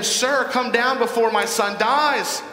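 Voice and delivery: slow, high-pitched pleading; great desperation. Acted. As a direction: plead urgently as a desperate father. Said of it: "Just great desperation".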